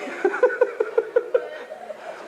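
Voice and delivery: high wheezing laughter; airy, high-pitched giggle; high breathless laugh. Real, not acted. Laughing through the point.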